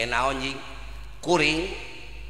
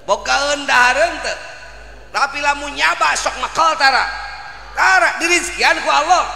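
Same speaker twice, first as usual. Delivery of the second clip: high, loud rousing exhortation; preaching at full force; 12 semitones higher, 8 dB louder than usual. Acted. Preacher urging the congregation not to lose to a dog, loud and high. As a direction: drive the crowd to act on trust.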